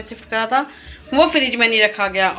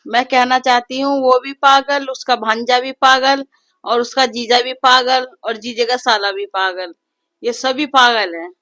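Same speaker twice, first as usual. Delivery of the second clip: exasperated, louder rant, hitting each पागल; fed-up rant with a raised voice; annoyed wife; 3 dB louder than usual. Real, not acted. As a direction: vent about the whole family. Wife scolds about brother's family.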